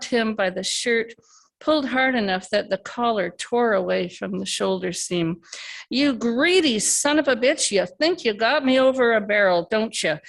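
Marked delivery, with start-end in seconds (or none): 5.9-10.2 louder and higher, spitting the insult; furious accusation. Acted. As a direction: lash out, grabbing him by the shirt. Benny erupts in fury.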